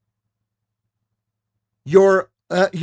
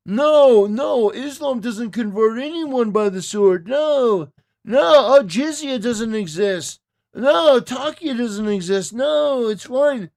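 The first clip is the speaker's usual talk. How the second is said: higher-pitched mocking "no, no"; mocking denial; 4 semitones higher than usual. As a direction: parody his dismissive denials. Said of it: "trying to just make shit up".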